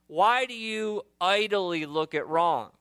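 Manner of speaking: slow, pointed accusation; accusing. Shown as a demonstration. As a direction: lean hard on why. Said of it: "listen to this".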